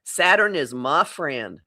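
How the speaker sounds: slow, deliberate mantra. Shown as a demonstration. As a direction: say it slowly like a creed. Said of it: "you gotta say it this way".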